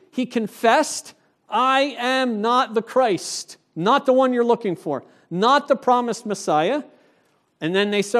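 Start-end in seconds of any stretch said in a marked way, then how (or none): 1.5-6.8 deliberate, measured denial on "I am not the Christ"; emphatic confession. Retold or imitated. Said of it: "He says emphatically".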